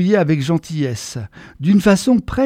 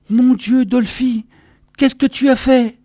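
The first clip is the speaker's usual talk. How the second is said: higher-pitched mother's reproachful exclamation; dismayed mother; 6 semitones higher than usual. A narrator's reading. Mother finds her son bloody and muddy, dismayed.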